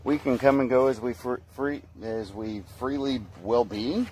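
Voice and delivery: tripping over the words; stuttering. Real, not acted. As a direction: stumble and restart the word. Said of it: "Sorry for the stuttering".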